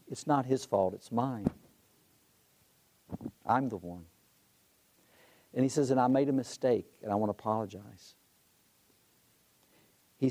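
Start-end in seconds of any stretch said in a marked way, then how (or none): 0.1-4.1 calm, understated admission of fault; retold calm reassurance. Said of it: "Very calmly". 5.9-8.2 calm, sincere apology, softening at the end; retold apology, easing down gently. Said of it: "Very calmly".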